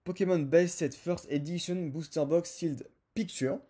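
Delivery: sounding out the English words with a heavy French accent, slightly self-mocking. Shown as a demonstration. French YouTuber reads an eBay listing title to his viewers, in French-accented English. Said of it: "lire avec mon accent anglais".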